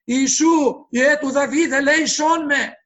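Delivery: loud beseeching plea; crying out. Retold or imitated. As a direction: call out loudly, begging for mercy. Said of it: "ενώ φώναζε".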